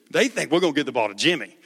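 quick rushed retelling of the coach line; fast repeat. Shown as a demonstration. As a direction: rattle it off fast.

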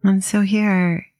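calm, unhurried meditation guide with long pauses; gently paced mindfulness instruction; guided meditation. Acted. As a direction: ease listeners into settling, leaving space between phrases.

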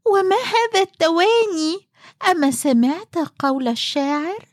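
high, sharp scolding woman; scolding wife voice. Acted. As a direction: chide him for dithering. Wife scolding husband's hesitation.

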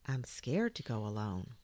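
small, understated fear; a touch of bashful worry; timid. Acted. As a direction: admit it meekly. Toy timidly admits fear.

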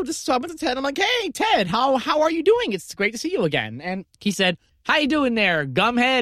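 lightly voiced high Southern mechanic; a hint of a laid-back Southern dude; Ted voice. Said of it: "still doing your Ted voice".

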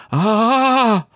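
high, stretched-out cry of fright; retold panicked yelp while frozen on the rope; cry of fear. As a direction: let the panic burst out slowly. Freezing in fear while climbing.

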